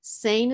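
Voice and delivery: SANE with a long A. Shown as a demonstration. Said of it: "It's a long A".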